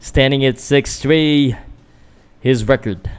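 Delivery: lightly announced fighter stats; mock ring announcer. Vlogger practising the fighter stats as a light ring announcer. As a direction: read the record like a ring MC. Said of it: "trying to practice".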